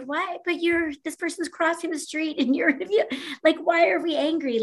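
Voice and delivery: high, baffled exasperation; incredulous, pleading for sense; exasperated disbelief. Retold or imitated.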